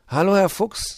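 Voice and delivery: high, loud little gnome voice; small high gnome voice; gnome Puh. Acted. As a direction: greet him as the shy gnome.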